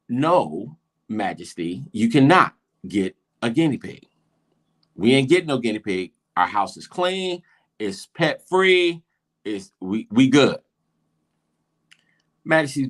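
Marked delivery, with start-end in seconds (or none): 0.1-10.6 emphatic refusal with hard pauses; retold dad putting his foot down; firm fatherly no. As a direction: lay down the law to a child.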